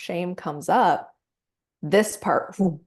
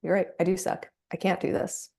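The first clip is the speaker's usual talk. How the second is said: voice of shame; faster than usual. Retold or imitated. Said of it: "The, like".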